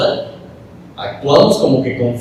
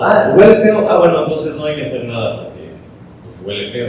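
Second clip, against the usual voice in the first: whiny excuse; 2 semitones higher, 4 dB louder than usual. Acted. Imagined excuse, it smells bad.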